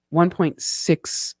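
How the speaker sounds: one point six, spelled out slowly; slow down so the number lands; slow restatement. Shown as a demonstration. Vlogger repeating the conversion for viewers, slowly. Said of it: "It's one point six".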